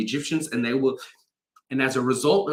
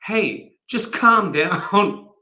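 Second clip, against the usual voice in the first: calm down; 6 semitones higher, 4 dB louder, much slower than usual. Retold or imitated. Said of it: "but he says to them".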